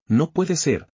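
high, startled outburst; a sudden jolt of surprise at the lost money; stunned disbelief. Acted. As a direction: blurt it out in shock. Shocked by the system notice.

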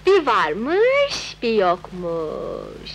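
slow, drawn-out storyteller; singsong opening of a fairy tale; fairy-tale telling. Acted. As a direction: tell a soothing bedtime tale, stretching the line endings. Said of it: "Bir masal söyle de avut beni".

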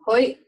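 "hoi" stopped abruptly at the end; "hoi" with a catch in the throat on the final y; abrupt ejective Y. Shown as a demonstration. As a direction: tighten the throat to cut off "hoi". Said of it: "It's that abrupt stop at the end".

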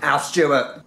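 lightly hammed-up Australian accent. Mocking the party boy Aussie backpacker, Australian accent. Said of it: "I'll stop the Australian accent now".

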